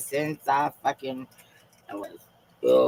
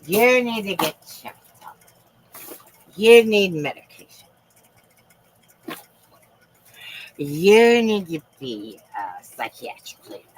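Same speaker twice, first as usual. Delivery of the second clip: higher, pushy mock lecture; mocking the doubters; 5 semitones higher, 4 dB louder than usual. Imitating critics who tell her to get checked, mock nagging. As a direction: lean on each YOU like a nagging critic. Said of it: "They tell me I'm crazy".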